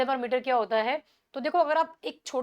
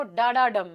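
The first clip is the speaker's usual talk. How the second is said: "डा डा डम" as two weak beats, one strong; da-da-DUM rhythm on "डा डा डम"; anapestic stress; slower than usual. Shown as a demonstration. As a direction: land on "डम" after two light "डा". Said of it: "anapaest का sound कैसा होता है".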